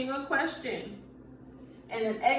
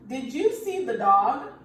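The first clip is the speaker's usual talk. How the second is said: asking question; 6 dB louder than usual. Shown as a demonstration. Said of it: "I think I'm asking a question".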